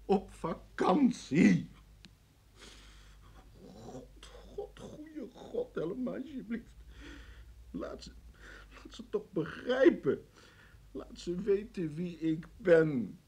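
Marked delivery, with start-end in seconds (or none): 3.6-13.2 very soft, slow broken plea; desperate prayer. Acted. Prisoner left alone, softly begging God. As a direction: whisper to God in despair.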